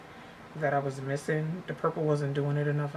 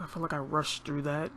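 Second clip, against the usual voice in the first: slightly out of breath after rushing. Real, not acted. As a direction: speak a little winded, out of breath. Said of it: "Sorry if I sound out of breath".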